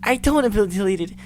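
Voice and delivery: high, pleading, close to breaking; terrified girl. Acted. Monika in panic, pleading with her friends in a high, breaking voice.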